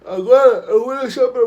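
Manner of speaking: words stretched by a yawn. Real, not acted. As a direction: speak through a yawn. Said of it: "desculpa o bocejo".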